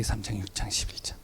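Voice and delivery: whisper. Acted. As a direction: let the chapters fade into a whisper. Preacher whispers Bible chapters.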